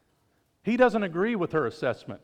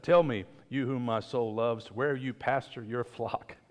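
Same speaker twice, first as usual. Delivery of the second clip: tender longing plea; 4 semitones lower than usual. Acted. Bride asking her shepherd king, tender and slow. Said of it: "this is the way she says it".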